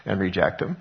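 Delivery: voicing God, rising. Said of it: "What God says is".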